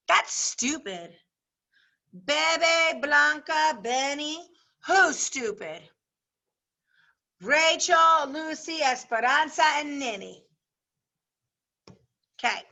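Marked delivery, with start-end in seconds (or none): 0.1-10.4 lively classroom read-aloud with voiced characters; story read aloud. Teacher reading a chapter to her class, lively read-aloud. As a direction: read it out to the class, giving each girl her voice.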